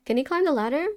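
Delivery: lightly voiced uwu cutesy voice. Streamer recalling Mister X on the ladder, light uwu voice. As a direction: retell it with a touch of uwu. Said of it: "doing the uwu voice".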